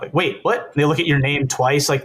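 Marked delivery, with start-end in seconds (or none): 0.1-0.7 higher-pitched surprised double take; mock shock. People puzzled by his name and face, retold mild shock. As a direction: imitate someone caught off guard. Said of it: "That shock of".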